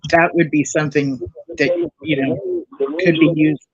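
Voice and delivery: caller far from the phone, muffled; muffled phone line. Real, not acted. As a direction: voice muffled like through a wall. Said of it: "You sound muffled".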